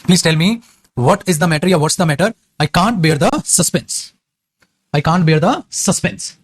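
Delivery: very slow, word by word English; slow dictation. Shown as a demonstration. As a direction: spell it out slowly for students to copy. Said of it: "है ना भाई?". (धीरे-धीरे, शब्द-शब्द बोलकर लिखवाना)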